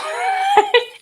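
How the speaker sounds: high bright laugh bursting out; burst of laughter. Real, not acted. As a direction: laugh out loud at the memory. Laughing at the story.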